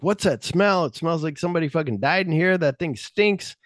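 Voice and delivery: high, fast disgusted complaint. Retold or imitated. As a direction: whine about the stink, high. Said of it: "and they're like".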